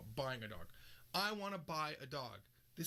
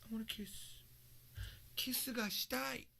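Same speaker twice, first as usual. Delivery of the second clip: coy voice; 7 semitones higher than usual. Acted. Teasing wish for a kiss.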